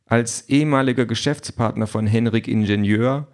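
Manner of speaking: ehemaliger pressed a little harder; stress on ehemaliger. A narrator's reading. Ehemaliger stressed in the anonymous letter. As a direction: lean on ehemaliger. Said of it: "die Betonung liegt auf ehemalig".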